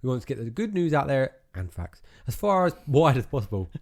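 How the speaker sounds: reading the closing script aloud; podcast outro read. Acted. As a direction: read the sign-off like an announcer.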